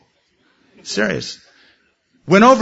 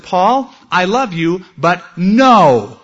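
God saying no; 2 semitones higher, 5 dB louder, much slower than usual. Retold or imitated. God answering Paul's prayer.

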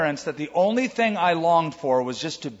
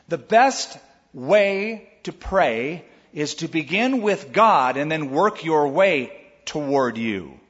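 ordinary talk, nothing marked

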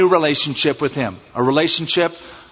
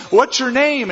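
high, bright friendly question; curious traveler; 9 semitones higher than usual. Acted. Traveler asking Abram his name, high friendly question. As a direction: ask the stranger's name lightly and high.

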